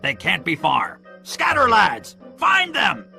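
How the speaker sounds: rally the men with urgent commands; Pew crying orders. A narrator's reading. Blind pirate sending his lads searching, mounting shout. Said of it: "Pew cried".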